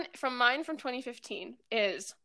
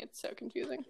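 whispering; 9 dB quieter than usual. Real, not acted. Aside about the confusing app.

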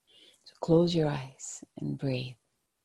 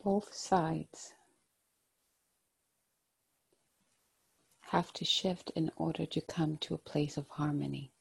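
gentle, hushed guided-meditation voice. Acted. Tarot card reading, meditative guidance.

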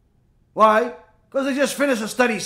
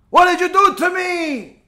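high, raised accusing cry; screaming at her; 8 semitones higher, 3 dB louder than usual. Retold or imitated. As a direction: hurl the question in panic. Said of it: "screaming her lungs out".

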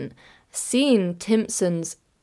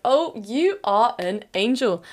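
slow, higher, drawn-out gushing; gushing gratitude; 4 semitones higher, slower than usual. Retold or imitated. Customer thanking the repairman for one week, gushing. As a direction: stretch it out with grateful adoration.

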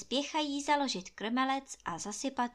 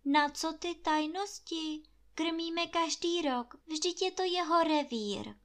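put-on higher, sulky young woman wanting the last word; Anče's retort; 7 semitones higher than usual. A narrator's reading. Anče answering the gamekeeper, lightly voiced and higher. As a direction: toss it back to have the last word. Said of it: "řekla Anče".

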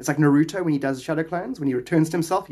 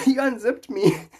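acted patient; 9 semitones higher, slower than usual. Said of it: "he's like".

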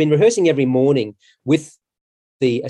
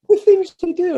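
laughing, much higher and a bit louder; 5 dB louder than usual. Real, not acted. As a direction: echo it through a real laugh. Laughing, echoing the interviewer.

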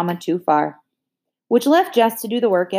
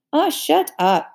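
snapping; 8 semitones higher, slower than usual. A narrator's reading. Brenda snaps at sister.

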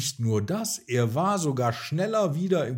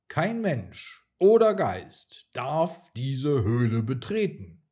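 dragon voice; 2 semitones higher, 6 dB louder than usual. Acted. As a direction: thunder it out like a dragon. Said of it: "donnerte der Drache".

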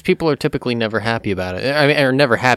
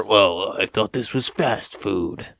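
annoyed customer; 2 semitones lower, 4 dB quieter, slower than usual. Acted. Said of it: "they're visibly annoyed".

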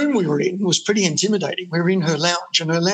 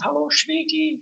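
put-on much higher, purring Zsa Zsa Gabor-style accent on sweetie; 9 semitones higher than usual. Beverly Hills label boss greeting the band, in an imitated Zsa Zsa Gabor-style accent. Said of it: "and she had this accent".

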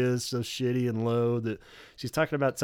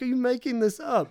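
higher, incredulous Robert voice; imitating Robert; 11 semitones higher than usual. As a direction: doubt her story as Robert. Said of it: "only do Robert".

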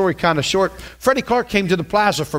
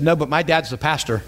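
laughing reply. Retold or imitated. Daughter's answer retold, laughing.

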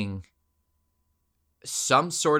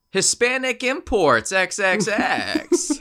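slow, higher hammed-up Hispanic accent; bad Hispanic accent; 7 semitones higher, 4 dB louder, slower than usual. The speaker naming the fake business, in a bad Hispanic accent. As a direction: drawl the company name in a fake accent. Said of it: "Hispanic type of accent".

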